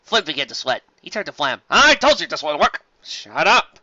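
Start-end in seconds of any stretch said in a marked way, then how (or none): 1.7-2.8 louder, higher fretful pony; nervous whine. Acted. Flim whines at Flam, nervous. 3.0-3.8 growled. Acted. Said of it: "Flam growled".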